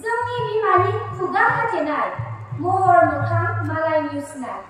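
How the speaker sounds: rhythmic poem reading with a pause after each line; poem recitation. Acted. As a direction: declaim the verse line by line. Recites Bodo poem Mijing.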